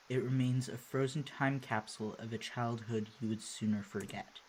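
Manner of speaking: low-key, measured narrator reading; story narration. A narrator's reading. Player reading game narration aloud, measured storytelling. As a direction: read the scene aloud evenly and quietly.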